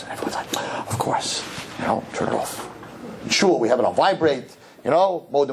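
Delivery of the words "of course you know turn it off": whispered mock agreement; hushed whisper. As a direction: breathe it like in a silent museum. Everyone agreeing in a hush.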